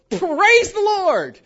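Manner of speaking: slow, loud mock hallelujah; drawn-out praise. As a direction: stretch it out like a gushing churchgoer. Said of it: "And they'd go".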